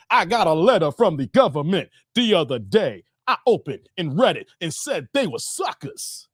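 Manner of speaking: hard rap-line delivery; reciting a rapper. Retold or imitated. Streamer recites a rapper's opening line, hard rap delivery. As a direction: spit it like an opening rap verse. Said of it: "you hear".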